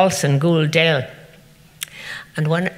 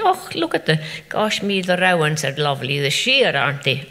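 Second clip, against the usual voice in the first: delighted exclaiming. Retold or imitated. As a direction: gush over the lovely trees. Admiring the rowan trees aloud.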